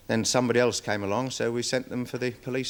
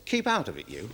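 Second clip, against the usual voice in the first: put-on rude boy. Handler mimicking the boy telling him to butt out. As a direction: toss it back like a cheeky lad. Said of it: "he says".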